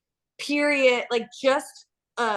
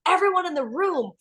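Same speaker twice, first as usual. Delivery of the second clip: mock Shakespearean. Quoting Nelson's poetic line, lightly hammed-up and dramatic. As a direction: quote him like a bit of Shakespeare, half-joking. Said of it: "It's, like, Shakespearean".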